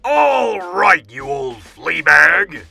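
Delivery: loud, commanding mouse officer; Big Cheese. A narrator's reading. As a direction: bellow a challenge, high attack then drawn out. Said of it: "squeaked the Big Cheese".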